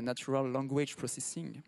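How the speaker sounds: "Natural Language Processing" said slowly in a French accent; French-accented English, slow. Real, not acted. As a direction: read the English term in a French accent, apologetically. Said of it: "alors mon accent anglais, vous m'excuserez".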